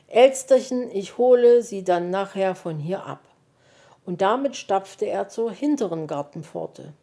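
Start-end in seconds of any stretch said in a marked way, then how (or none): 0.1-3.2 Zuruf. Acted. Fuchs ruft Elster zu.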